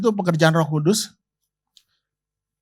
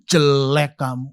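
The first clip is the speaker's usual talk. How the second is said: mock insult to wife. Shown as a demonstration. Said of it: "kalau suaminya bilang gini".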